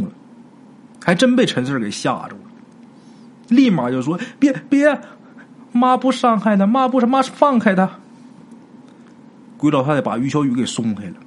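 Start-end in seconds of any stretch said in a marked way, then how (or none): 4.4-7.9 put-on high, hurried old-woman pleading; flustered ghost mother. Ghost mother hastily reassuring her frightened son. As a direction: back down fast, anxious to please.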